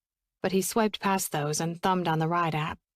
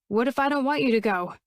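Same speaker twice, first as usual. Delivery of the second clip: raised, pleading call after him; 5 semitones higher than usual. Acted. Woman calling after the man leaving the party, pleading. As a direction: call it out as he walks away. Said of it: "she called".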